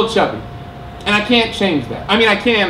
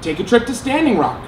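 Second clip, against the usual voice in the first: hammed-up infomercial pitch; mock ad read. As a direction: sell a theme park with fake cheer. Holds a mock commercial pitch.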